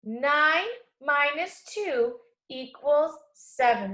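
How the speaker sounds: put-on slow, even read-along for kids; teacher reading a number sentence slowly; read aloud together. Shown as a demonstration. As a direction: model the sentence slowly for the class. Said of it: "let's read this together".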